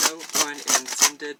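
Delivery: slow, loud emphasis on each word; loud, deliberate aside. Real, not acted. Vlogger flagging a pun to viewers, loud and deliberate. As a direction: announce it loudly and slowly. Mock announcement of a wordplay.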